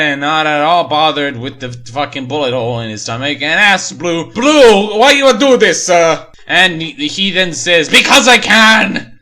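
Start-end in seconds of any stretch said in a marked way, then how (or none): 4.3-6.3 high, loud whiny plea; the shot victim wails a high, loud plea to his friend; hammed-up pleading. Dying Mac pleads with Blue. 7.9-9.1 high, loud, slow gloating; the killer gloats at his victim with a high, loud shout; mock villain yell. Blue answers Mac, villain.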